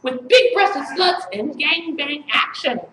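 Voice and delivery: emphatic, chanted spoken-word delivery; incantatory slam-poem reading; poetry recital. Acted. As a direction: declaim each line as a mock-serious poet.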